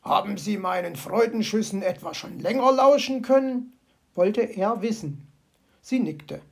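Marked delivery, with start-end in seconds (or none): 0.0-3.7 fox voice, curious; pleased fox. Acted. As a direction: ask proudly. Fox asks.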